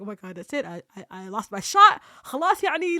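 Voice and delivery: despairing, building to a loud outburst; retold panic. Fearing the shot is lost, panicking. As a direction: give up in mock despair. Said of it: "I was literally panicking".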